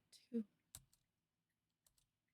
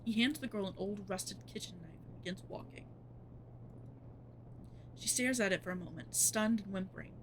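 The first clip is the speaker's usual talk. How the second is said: story narration. A narrator's reading. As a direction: read it like a dark tale. Narrates horror game text.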